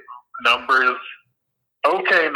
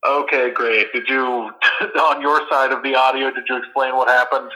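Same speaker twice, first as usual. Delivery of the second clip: speakerphone sound; tinny voice over phone; phone speaker. Real, not acted. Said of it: "You're on speakerphone right now".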